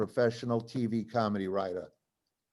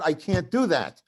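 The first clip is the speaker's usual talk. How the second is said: retold protest, raised and a little louder; emphatic refusal; 4 semitones higher, 4 dB louder than usual. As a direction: push back harder in a mock argument. Repeated refusal in retold fight.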